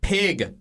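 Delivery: pig impression. Shown as a demonstration. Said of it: "Keep going".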